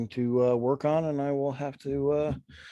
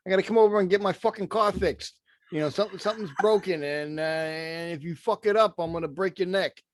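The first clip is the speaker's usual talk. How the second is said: tough guy prank caller; 4 semitones higher than usual. Retold or imitated. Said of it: "It would be something like".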